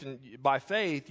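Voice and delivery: and by faith, slowed down, falling on faith; slow falling emphasis. Acted. Preacher repeating to the congregation, slow and falling. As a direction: settle it slowly and firmly.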